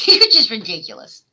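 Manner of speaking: exasperated laughing repeat. Real, not acted. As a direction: laugh it out at her.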